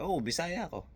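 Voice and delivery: a touch of firm Bisaya lilt, voice lifted; hard Bisaya accent. Retold or imitated. Answering cousins who laugh at the accent, in a mild Bisaya accent. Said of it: "natatawa sila sa accent ko, matigas".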